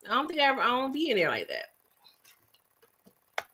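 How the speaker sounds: slow whispered aside; hushed confession to the chat. Real, not acted. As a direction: lean in and whisper it like a secret.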